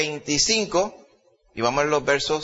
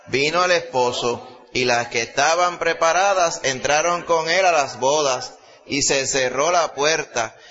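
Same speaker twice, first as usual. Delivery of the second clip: slow, raised, ringing Bible reading; fervent scripture reading; slower than usual. Acted. Preacher reading the parable to the congregation, slow and ringing. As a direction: proclaim each verse to the whole church.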